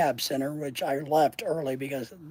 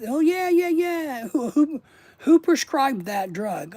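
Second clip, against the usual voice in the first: mocking high nurse voice; 9 semitones higher, 5 dB louder, slower than usual. Voicing nurse then himself.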